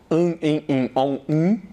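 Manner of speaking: AN, EM, IN, ON, UM as five nasal vowels. Shown as a demonstration. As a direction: list each vowel through the nose, consonant unsounded. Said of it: "a vogal vai ter um som nasal". ("an, em, in, on, um" como vogais nasais)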